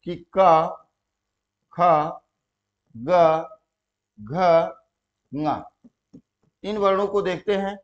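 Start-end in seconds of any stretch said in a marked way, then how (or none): 0.3-5.6 each letter with a long aa, slowly spaced; dictating letters. Shown as a demonstration. Teacher dictates letters for students to write. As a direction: dictate का, खा, गा, घा, ना one by one. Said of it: "यहाँ पे लिखें".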